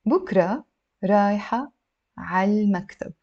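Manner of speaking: word by word, with clear pauses; drawn-out teaching pronunciation; very slow. Shown as a demonstration. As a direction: break it down for beginners. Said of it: "We will read it very, very slowly".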